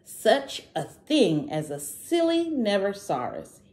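a bold little dinosaur shouting that he isn't scared. Acted. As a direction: shout it out, refusing to believe. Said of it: "he shouted".

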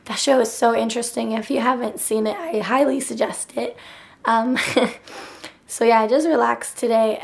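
hoarse, nearly gone voice; talking through a worn-out throat; lost voice. Real, not acted. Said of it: "my voice sounds so funny".

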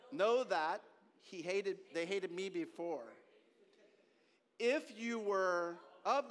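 slow, measured reading with pauses; scripture reading. Acted. Preacher reads Jesus' words to congregation, slow scripture reading. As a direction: read it out slowly, weighting each phrase.

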